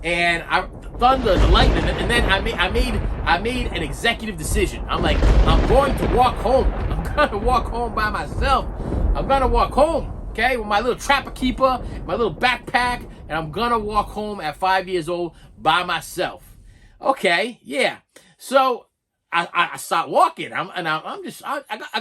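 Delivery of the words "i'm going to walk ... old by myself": emphatic, slowed resolve; mock determination. Five-year-old deciding to walk home alone, mock determined. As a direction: declare it like a big decision. Child announcing a decision.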